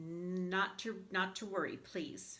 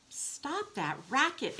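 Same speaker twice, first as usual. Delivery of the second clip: mild mock interruption; 8 semitones higher, 3 dB louder, slower than usual. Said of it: "interrupted the duck".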